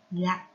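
"Gặt" said alone with the ắt rhyme; careful syllable model. Shown as a demonstration. Teacher shows pupils a hard word, "Gặt" pronounced carefully with the ắt rhyme. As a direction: model "Gặt" as one short, separate syllable. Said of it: "Vần ắt, đọc là gặt".

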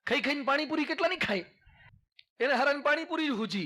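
mock naive boy. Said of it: "મને કે".

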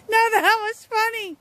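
high, slow amused voice. Real, not acted. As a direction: still laughing a little. Laughing at dog.

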